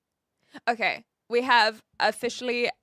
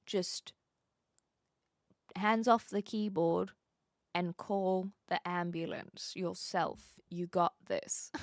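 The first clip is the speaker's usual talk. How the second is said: slow, softer coaxing; calm reassurance; 2 semitones lower, 5 dB quieter than usual. Pretend. Telling a panicked friend to call the ambulance, calmly reassuring. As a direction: talk them down gently.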